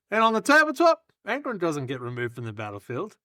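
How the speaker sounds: scripted pitch with suspense; sales pitch speech. Acted. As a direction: set up the next big reveal. Performs timed recruitment speech.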